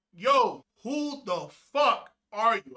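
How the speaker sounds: slow, high, loud challenge; mock maniac yell. Man challenging whoever is at the door, maniac yell. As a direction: reenact a drawn-out yell at an intruder. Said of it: "yelling like a maniac".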